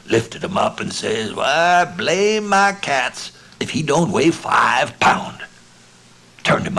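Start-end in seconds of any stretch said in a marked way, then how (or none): 1.3-5.4 higher, louder, slow amazed cry; Smiley hefting the heavy frog, amazed; amazed exclamation. Acted. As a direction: drag out the shock at the weight.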